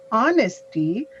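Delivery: "honesty" opening like "awesome"; silent H. Shown as a demonstration. Teacher spelling out the word, "honesty" said with silent H. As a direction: start "honesty" on the vowel, no H. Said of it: "like awesome".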